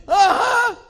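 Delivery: high, loud laughing assent; laughing yes. Retold or imitated. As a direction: laugh it off casually. Young man confirms, laughing.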